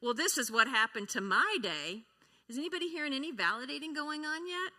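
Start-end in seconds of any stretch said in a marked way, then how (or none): 0.0-2.0 loud competitive retort; a spouse one-upping a partner's bad day. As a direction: top their complaint.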